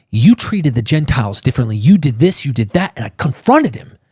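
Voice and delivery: understated indignant scolding; mild mock anger. Paul confronting Peter to his face, mildly angry. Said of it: "he is pissed".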